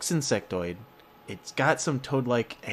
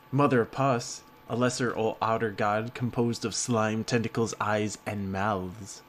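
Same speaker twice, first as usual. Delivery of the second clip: hushed nature documentary. Acted. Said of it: "work on my narrator voice".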